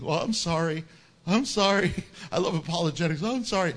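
I love apologetics rushed between mock sorrys, with a laugh. Shown as a demonstration. Preacher mocking the wrong meaning for the congregation, mock apologetic. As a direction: fake a sheepish apology. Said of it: "they mean not saying".

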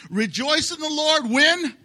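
call and response. Shown as a demonstration. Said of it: "Let's try that again".

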